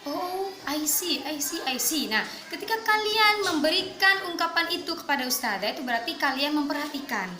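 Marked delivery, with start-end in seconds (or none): 0.1-2.1 slow, interested nodding reply; attentive listener. Shown as a demonstration. Student answering the teacher, slow attentive reply. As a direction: show you are following along. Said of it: "giving expression seperti ini".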